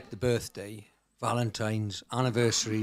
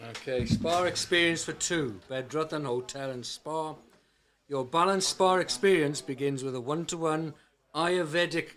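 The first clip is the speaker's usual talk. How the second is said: put-on Welsh accent. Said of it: "in your best Welsh accent".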